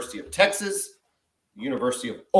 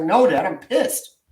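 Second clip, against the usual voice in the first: imitating daughter; 3 semitones higher than usual. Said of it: "She's like".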